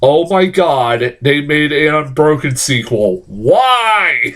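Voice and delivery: slow dawning dismay rising to a wailed why; reenacted exasperated outburst; furious disbelief. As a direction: start stunned, then cry out in protest. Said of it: "I was just furious".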